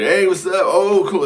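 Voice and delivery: high, loud, easygoing hey what's up; breezy dude greeting. Retold or imitated. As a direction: play a casual cool New Yorker. Mock New Yorker greeting.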